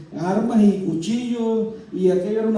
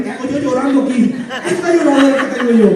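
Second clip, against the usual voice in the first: laughing at himself; 3 semitones higher, 3 dB louder than usual. Real, not acted. Laughs at his own crying.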